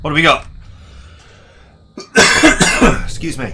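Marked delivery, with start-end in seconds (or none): 2.0-3.0 loud hacking cough; chesty cough. Real, not acted. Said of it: "I'm sure I'll stop coughing".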